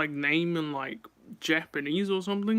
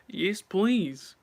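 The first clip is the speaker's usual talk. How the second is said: louder, higher, gleeful "please" with a falling end; eager yes please; 4 semitones higher, 4 dB louder than usual. Shown as a demonstration. Listing buffet food to viewers, eager and louder. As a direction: hungrily accept more food. Listing foods she piles on.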